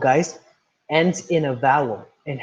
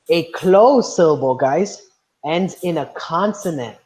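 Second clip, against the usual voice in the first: slow teaching emphasis; 4 dB louder, slower than usual. Shown as a demonstration. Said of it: "defining closed syllable for class".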